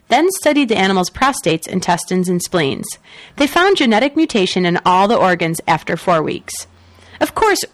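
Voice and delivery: editorial newscaster read; news read. Acted. Reads the next news story.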